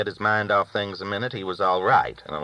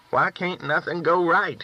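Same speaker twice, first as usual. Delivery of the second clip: Gid's lament; 9 semitones higher than usual. A narrator's reading. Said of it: "he said".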